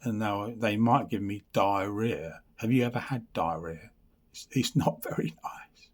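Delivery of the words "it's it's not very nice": whispered with a little laugh; wry whispered aside with a laugh. Real, not acted. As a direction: drop to a giggly whisper. Joking aside about diarrhea.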